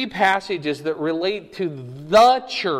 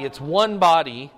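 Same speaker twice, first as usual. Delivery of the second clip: ONE punched before body; stress on ONE; 4 dB louder than usual. Real, not acted. Teacher insisting on a single body, stress on ONE. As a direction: hit ONE firmly, then let body fall.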